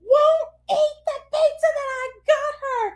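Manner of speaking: high, laughing through tears; laugh-crying. Retold or imitated. Mom complaining to husband, high laugh-crying.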